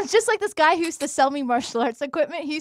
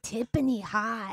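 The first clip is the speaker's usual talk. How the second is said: slow, soft mock Asian accent; drawn-out, lightly put-on Asian accent; 3 semitones lower, 8 dB quieter, slower than usual. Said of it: "That's exactly how he sounded".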